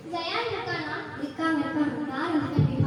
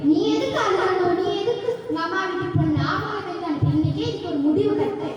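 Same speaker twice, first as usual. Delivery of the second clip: raised voice, firm and heated; punchy, indignant questions; indignant outburst; 4 dB louder than usual. Acted. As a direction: angrily take your wife's side. Husband angrily takes wife's side.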